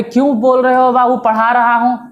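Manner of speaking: playful mock question to a student; mocking retort. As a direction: tease the student for the wrong form. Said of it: "बोले".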